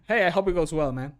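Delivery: ordinary talk, nothing marked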